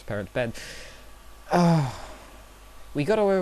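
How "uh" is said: loud, higher-pitched "uh"; exasperated groan. Real, not acted. Vlogger remembering the bloodied parents' bed, exasperated groan. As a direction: groan briefly at the memory.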